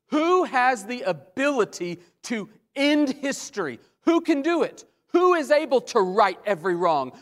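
loud angelic cry. Acted. Preacher as the angel challenging all creation, loud insistent cry. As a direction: call out each question forcefully. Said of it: "He cries out with a loud voice".

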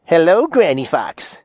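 mildly surprised storybook greeting; understated feigned surprise; surprised exclamation. A narrator's reading. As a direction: greet her with a touch of surprise. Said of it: "as if very much surprised".

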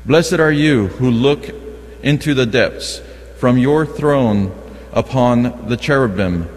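usual speaking voice

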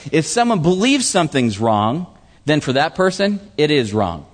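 "believes" stressed, "it is wrong" falling firmly; emphatic repeat. Retold or imitated. Preacher repeats the verse to drive it home, emphatic. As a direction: lean on "believes", then drop onto "it is wrong". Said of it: "That's what he's really emphasizing".

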